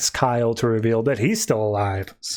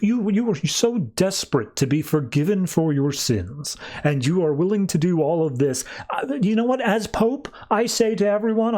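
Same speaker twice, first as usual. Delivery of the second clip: mildly grandiose pontiff, mostly higher-pitched; pompous; 5 semitones higher than usual. Acted. Pope addresses the people about forgiveness, pompous. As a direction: proclaim it to the crowd, lightly pompous. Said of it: "doing this whole big pompous thing".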